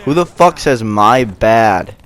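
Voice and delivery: exasperated self-mocking outburst; incredulous. Real, not acted. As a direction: exclaim it, appalled at yourself. Incredulous at own embarrassing words.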